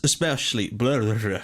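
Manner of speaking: tripping over the word, then blubbering nonsense; tongue-tied. Real, not acted. Gamer apologising to viewers mid-intro, tongue-tied. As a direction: fumble it and give up in a blurted blah. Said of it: "I can't really speak properly".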